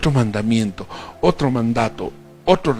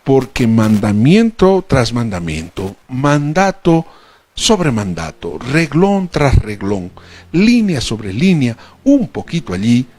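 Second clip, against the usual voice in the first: emphatic scripture reading; 4 dB louder than usual. Acted. Preacher reading Isaiah to the congregation, loud and deliberate. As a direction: proclaim each phrase of the verse. Reads Isaiah verse aloud.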